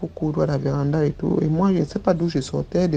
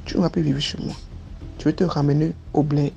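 nanny's threat. Retold or imitated. Nanny threatening to send the girl back to the village, mild menace. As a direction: mutter the threat coldly. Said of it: "elle me fait comprendre".

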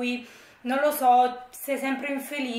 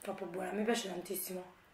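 chewing between words; talking while eating pizza; 4 semitones lower, 12 dB quieter than usual. Real, not acted. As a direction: mouth partly full. Seen 0: holds slice at mouth, bites it while speaking words.

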